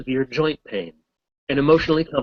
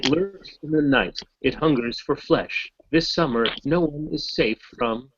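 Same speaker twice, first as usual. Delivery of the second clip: horror trailer voice; 3 semitones higher, slower than usual. Pretend. Reading a black card as movie trailer.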